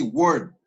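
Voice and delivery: "word" ending in a t sound; final d as t. Shown as a demonstration. Teacher showing the final sound of "word". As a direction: end "word" with a t. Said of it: "suena así".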